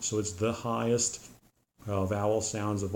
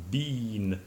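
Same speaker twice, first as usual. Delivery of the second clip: "bean" with a long E, British way; British been as bean; British pronunciation. Shown as a demonstration. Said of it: "a long E sound".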